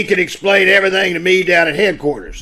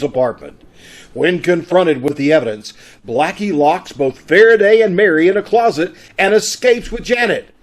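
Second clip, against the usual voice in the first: radio announcer recap; 3 semitones lower than usual. Acted.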